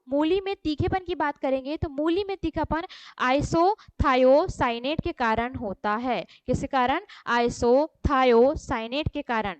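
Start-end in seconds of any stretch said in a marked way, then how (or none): 3.2-6.3 isothiocyanate drawn out syllable by syllable; very slow teaching pace; slow dictation. Shown as a demonstration. Teacher dictates key term slowly. 7.3-9.5 isothiocyanate drawn out syllable by syllable; very slow teaching pace; slow dictation. Shown as a demonstration. Teacher repeats key term.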